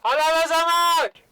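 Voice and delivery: high, loud stretched vowels in "I love her so much". Shown as a demonstration. Coach shouts love on the vowels. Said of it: "it'll be very loud".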